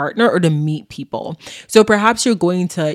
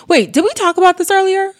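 sudden doubt; 14 semitones higher, 4 dB louder than usual. Real, not acted. Suddenly doubting herself mid-episode.

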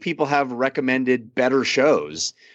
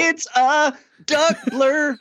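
high, slow squawky cartoon duck; Donald Duck voice; 14 semitones higher, slower than usual. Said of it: "good Donald Duck impression".

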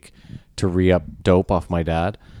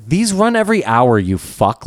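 higher-pitched, indignant retort; retold exasperation; 5 semitones higher, 4 dB louder, slower than usual. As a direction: throw it back at the driver. Retold outburst at bus driver.

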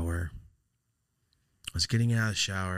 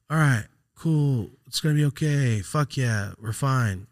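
loud, raised pep talk to oneself; acted self-reassurance; 6 semitones higher, 6 dB louder, slower than usual. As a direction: psych yourself up, drawn out at first. Retold self-reassurance in the hotel.

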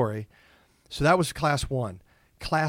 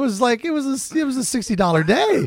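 exasperated; 12 semitones higher, 8 dB louder than usual. Real, not acted. Exaggerated complaint about cab cost.

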